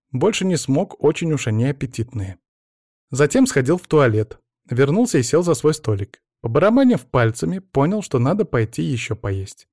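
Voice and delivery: mock-earnest recital, phrase by phrase; reading aloud. A narrator's reading. Anna reads Pavel's report to the team, reciting. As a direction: read it out like a school composition, lilting. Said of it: "затем прокашлялась и начала".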